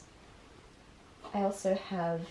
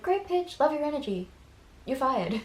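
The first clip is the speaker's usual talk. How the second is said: mock director voice; 6 semitones higher than usual. Director firing Barbie, mocked.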